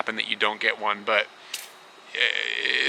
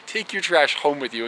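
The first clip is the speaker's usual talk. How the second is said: mock reread sign; 3 semitones higher than usual. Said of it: "I'm at a hotel".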